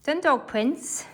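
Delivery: "Done dog prints" stretched slowly, word by word; slow drawn-out. Shown as a demonstration. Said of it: "tick a few things off".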